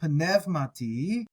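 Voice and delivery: pneumati said slowly, P and nu each clear; slow sounding out. Shown as a demonstration. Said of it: "You have the P and the nu".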